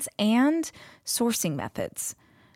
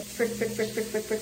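in an ice bath; 3 semitones higher, 4 dB quieter than usual. Real, not acted. Cold water shock.

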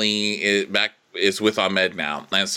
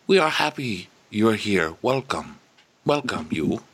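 put-on French accent; 3 semitones higher than usual. Imitating welcoming French guy.

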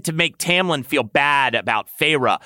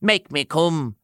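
demanding; 4 semitones higher than usual. Acted. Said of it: "Tamlin demanded".

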